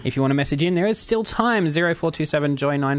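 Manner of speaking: radio announcer. Acted. Radio station ident.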